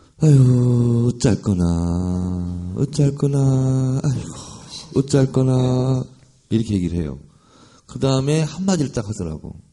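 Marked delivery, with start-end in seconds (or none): 0.2-6.0 Korean Jeolla dialect. Retelling an elderly fish-shop owner's words, in old woman's Jeolla dialect. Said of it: "전라도 사투리로".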